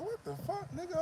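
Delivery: can't believe what he just heard; outraged disbelief. Real, not acted. Outraged at being blamed.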